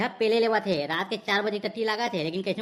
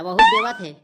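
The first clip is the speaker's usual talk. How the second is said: shrill mocking squeak, much higher and louder; mock high-pitched squeal; sudden squeal; 10 dB louder than usual. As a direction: jump way up into a teasing squeal. Mocking the sarpanch's respect.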